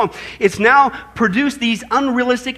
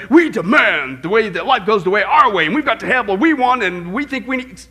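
emphatic mock demand, easing off at the end; demanding attitude. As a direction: lay down demands as if entitled. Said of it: "to have this attitude".

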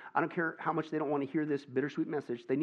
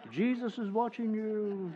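slow laughing echo; 7 semitones higher, slower than usual. Acted.

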